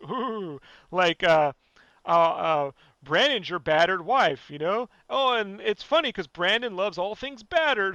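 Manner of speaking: hammed-up witty podcaster delivering jokes; mock podcast voice. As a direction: put on a self-satisfied funny-host act. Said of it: "let's put on the podcast voice".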